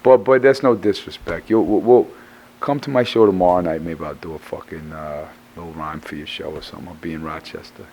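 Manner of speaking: hoarse after screaming vocals; strained voice. Real, not acted. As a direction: spare a worn-out voice. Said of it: "I just tore up my vocal cords".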